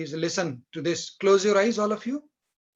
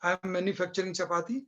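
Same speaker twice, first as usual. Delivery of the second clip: slow mocking example; slower than usual. Shown as a demonstration. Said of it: "क्या आप कह सकते हैं".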